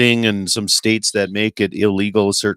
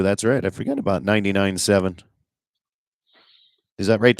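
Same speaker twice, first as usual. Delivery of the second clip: usual speaking voice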